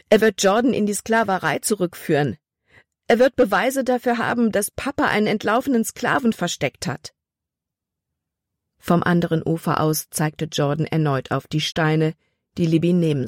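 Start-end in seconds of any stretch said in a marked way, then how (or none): 0.1-7.1 higher, mounting panic; alarmed realisation. A narrator's reading. Libby realises Hutton's trap, increasingly alarmed. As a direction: let the alarm build, pitch climbing.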